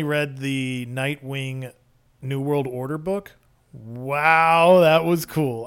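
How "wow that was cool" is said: bright grin in the voice; smiling voice. Real, not acted. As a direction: say it with a smile. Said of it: "hear the smile in my voice".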